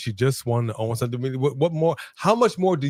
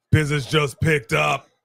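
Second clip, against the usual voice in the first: announcer shout; 2 semitones higher than usual. Acted. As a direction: belt it like a ring announcer. Wrestling watch-along commentary.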